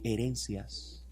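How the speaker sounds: slow, low "herencias" for the congregation to repeat; slow model word. Shown as a demonstration. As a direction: say "herencias" slowly for them to echo. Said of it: "Diga conmigo". ("herencias" lento y grave)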